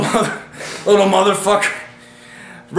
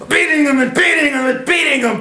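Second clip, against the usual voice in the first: excited; 5 semitones higher than usual. Real, not acted. Excited fight retelling.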